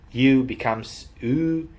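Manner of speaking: second "U" a long "oo"; stretched Northern vowel. Shown as a demonstration. Vlogger teaching Northern vowels, second "U" said as long "oo". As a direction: drop the y-glide from the last "U". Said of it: "stretching those vowels".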